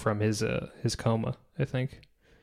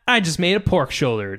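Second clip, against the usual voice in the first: a light touch of Sam, slightly raised; Sam impression; 3 semitones higher than usual. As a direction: toss it off as Sam bragging about dinner. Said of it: "That's my Sam impression".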